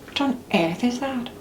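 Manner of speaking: put-on British royal accent; mock-regal British small talk; British accent like the Queen. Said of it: "talk like the Queen".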